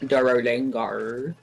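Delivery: slow mock Australian accent. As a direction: put on a silly, drawn-out Australian accent. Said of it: "doing this stupid Australian accent".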